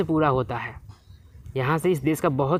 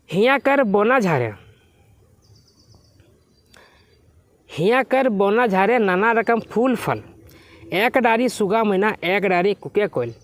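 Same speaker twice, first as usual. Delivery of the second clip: poem recitation; 3 semitones higher than usual. Acted. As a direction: recite the verse line by line. Recites the poem's verse. (कविता पाठ)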